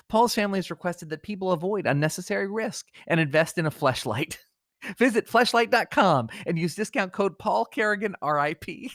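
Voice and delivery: grave announcer voice fighting off laughter; mock-solemn obituary read. Host reads an absurd obituary, trying to stay solemn. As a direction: keep it dignified while the giggles break through.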